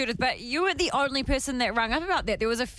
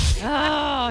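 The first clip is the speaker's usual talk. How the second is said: shout; 2 semitones higher, 5 dB louder than usual. Real, not acted. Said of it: "I didn't yawn".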